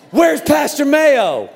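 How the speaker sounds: high, loud, drawn-out demand; hammed-up angry yell. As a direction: storm in and call it out slowly. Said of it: "Like, I was yelling".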